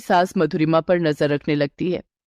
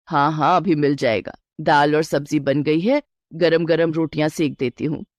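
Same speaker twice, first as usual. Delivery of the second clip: a lightly lowered, steady mother-in-law; 4 semitones lower than usual. Acted. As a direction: reassure the bride as a knowing elder. Mother-in-law answers son. (हल्की सी नीची आवाज़ में सास)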